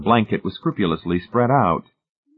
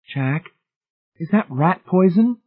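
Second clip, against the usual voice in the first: alarmed question; 10 semitones higher, slower than usual. A narrator's reading. Marcia alarmed at the bottle.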